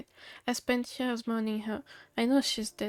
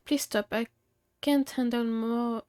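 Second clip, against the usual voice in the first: bad Southern accent. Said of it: "I worked on that accent for weeks".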